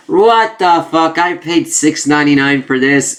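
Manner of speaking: mock angry rant; mock outrage. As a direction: play the cheated buyer, hammed-up. Mock outraged reader reaction.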